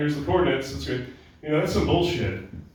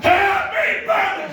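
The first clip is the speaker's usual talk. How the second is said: very high, drawn-out loud scream; 5 dB louder, slower than usual. Acted. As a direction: scream the birthday greeting at a kid. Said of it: "Just fucking screaming at that".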